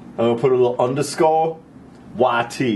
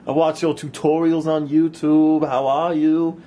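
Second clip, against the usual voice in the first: put-on girl's voice; 4 semitones higher, slower than usual. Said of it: "and she's all like".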